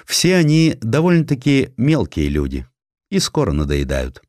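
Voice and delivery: plain reading voice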